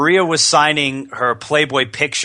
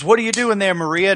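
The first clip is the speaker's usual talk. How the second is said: raised, higher-pitched imitation of a wrestler; Ric Flair impression; 8 semitones higher than usual. Host imitating wrestler calling to colleague, high excited voice. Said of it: "all of a sudden he goes".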